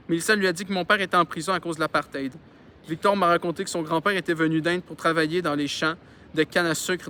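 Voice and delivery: reading a novel aloud; story narration. A narrator's reading. Reader telling a childhood story to listeners, narrating. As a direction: narrate it clearly, with lively phrasing.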